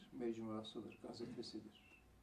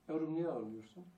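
mother asking; 4 semitones higher, 8 dB louder than usual. Retold or imitated. Mother asks a third time.

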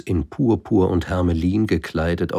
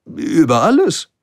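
high, loud plain statement; matter-of-fact king; 12 semitones higher, 8 dB louder than usual. Acted. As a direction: state it as obvious. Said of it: "antwortete schlichtweg der König". (König, hoch, schlicht und selbstverständlich)

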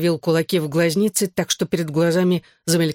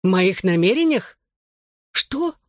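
startled; 3 semitones higher, slower than usual. A narrator's reading. Son startled by mother.

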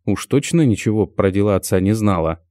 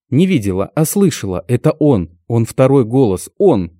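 firm, certain statement, a bit louder; confident; 4 semitones higher, 4 dB louder than usual. Acted. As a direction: insist with certainty. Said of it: "уверенно заявляет она".

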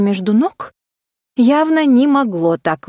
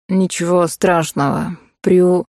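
low easy man; 4 semitones lower, slower than usual. Acted. Male voice low.

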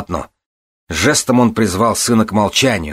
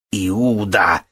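drawn-out mild cry of betrayal; accusing cry. A narrator's reading. Son branding the lady a traitor, crying out. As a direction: call out the accusation. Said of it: "закричал он".

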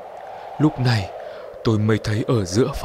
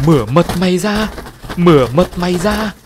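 eerie, higher and louder bird-like chant; strange bird voice; 7 semitones higher, 5 dB louder than usual. A narrator's reading. The bird suddenly speaks to the frightened family, eerie and strange. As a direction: let an uncanny voice come out of the bird. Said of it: "lạ hoắc nhưng rất rõ ràng".

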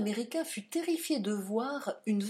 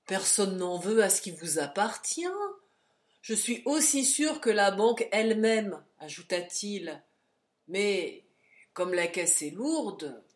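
louder, coaxing porter; hint for a tip, slyly; 5 dB louder than usual. Acted. Porter keeps talking.

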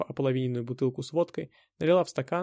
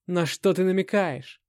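angry; 5 semitones higher, 4 dB louder, slower than usual. A narrator's reading. Hero furious at Anna.

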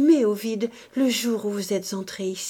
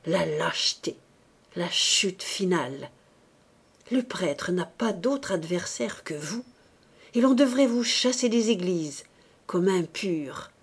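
scornful. Acted. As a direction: pour contempt down on her. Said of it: "laissa tomber sur elle son mépris".

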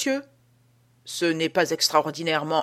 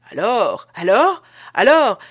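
breathless emphasis; 4 semitones higher, 9 dB louder, slower than usual. Acted. Guard builds to the climax.

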